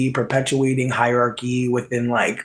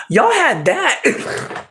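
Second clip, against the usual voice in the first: mock drawn-out envy; 12 semitones higher, much slower than usual. Mock voice of envious viewer.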